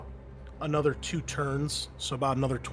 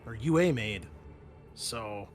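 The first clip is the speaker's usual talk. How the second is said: Mason's voice. Acted. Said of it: "Mason says".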